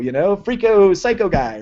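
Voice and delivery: hammed-up disgusted brush-off; mock recoil. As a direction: push the strange guy away. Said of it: "And they're like".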